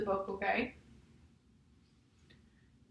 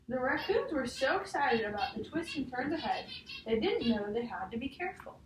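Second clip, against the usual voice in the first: put-on reading a picture book aloud to a child; measured storybook read, each page leading to the next; story reading; 2 semitones higher than usual. Teacher reading a picture book to a child, storybook voice.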